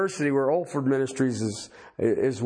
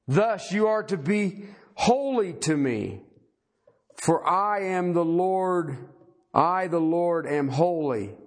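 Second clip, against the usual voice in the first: scripture reading; 3 semitones higher than usual. Acted. Preacher reading God's command to the congregation, solemn scripture reading. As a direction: read out God's words in spaced, weighty phrases.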